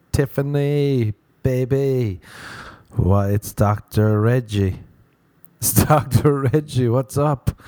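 slow, crooning lady's-man voice; drawn-out smarmy flirt on the phone; smooth-talking doctor. Retold or imitated. Doctor phoning the sales rep, slow smarmy croon.

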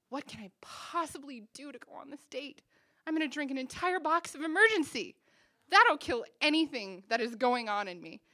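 slightly hammed-up determined self-talk; frantic resolve. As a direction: build from anxious question to loud vow. Frantic self-talk before a date.

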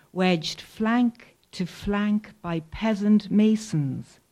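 slow, deliberate poem recital; poetry reading. Acted. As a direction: weigh each word of the poem. Reads poem about the arch.

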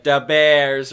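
punchy "Da Bears" coach accent; entrance word accent. Shown as a demonstration. Player coaching the accent, mock coach accent. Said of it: "your entrance word".

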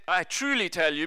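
"truly" given the main weight; stress on truly. Retold or imitated. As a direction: lean on the word "truly". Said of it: "he's emphasizing".

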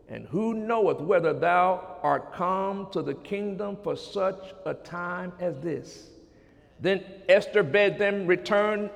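slow, measured Bible reading; solemn scripture reading. Real, not acted. Preacher reading Esther chapter four to congregation, measured reading. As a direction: read the verses out deliberately, phrase by phrase.

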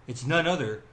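big show-host build to the name; announcer intro. Acted.

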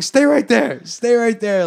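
high, urgent imitation of a cop; mock police order. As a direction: act out a cop barking an order. Cops ordering them to stay.

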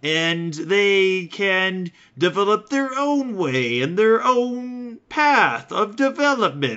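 high, loud, slow patronizing denial; Afrikaner apologist voice. Retold or imitated. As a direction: play a smug old-school Afrikaner insisting he's not racist. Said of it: "you'd have these Dutch people that are like".

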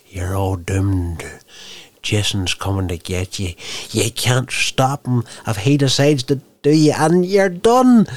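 slow doom warning building to a loud, high cry; slow ominous prophet rising to a yell; crazy old guy warning. Retold or imitated. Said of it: "that crazy old guy that always turned up and he's like".

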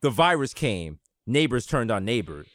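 low, slow, dropping trailer voice; ominous game narrator. Retold or imitated. Mocking the game's cutscene narration with a low ominous voice. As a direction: read it like a grim game intro, deep and slow. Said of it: "they were like".

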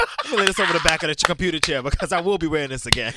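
playful high put-on voice; high mock voice. Acting out brunch prep.

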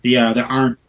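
choppy, breaking-up call audio; laggy video call. Real, not acted. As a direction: voice cutting out on a bad connection. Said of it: "You're breaking up".

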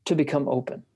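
measured reading of a written dialogue; book reading. A narrator's reading. Host reads a bishop interview to a friend, measured book reading. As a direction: read the passage aloud deliberately, phrase by phrase.

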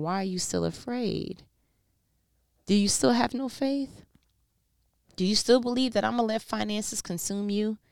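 rising, building voice of God questioning; God asking. Acted. Preacher speaking as God to a weary believer, building to a high plea.

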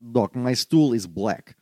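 put-on Russian accent. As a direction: speak as a Russian patient. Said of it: "It's actually not terrible".

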